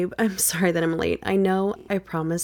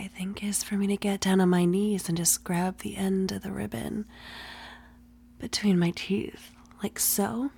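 soft teasing whisper; breathy ASMR whisper; 3 dB quieter than usual. Acted. Whispered roleplay.

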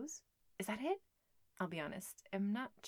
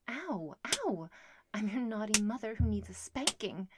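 loud pained cry; 3 semitones higher, 7 dB louder than usual. Acted. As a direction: cry out as if struck. Cries out during roleplay spanking.

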